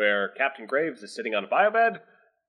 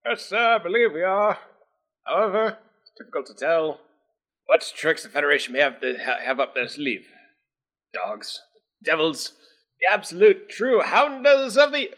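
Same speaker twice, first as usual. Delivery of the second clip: stiff metallic cyborg voice, raised high; robotic voice; 6 semitones higher, 4 dB louder than usual. Acted. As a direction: speak like a rising, ranting android. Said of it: "in a robotic voice".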